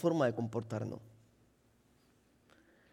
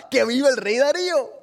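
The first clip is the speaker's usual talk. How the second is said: proclaiming officials; 5 semitones higher, 4 dB louder than usual. Retold or imitated. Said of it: "y ahí estaba".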